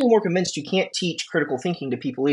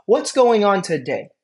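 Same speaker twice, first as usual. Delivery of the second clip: 1 intro greeting; 3 semitones higher, slower than usual. Shown as a demonstration. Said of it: "That's my, that's my intro".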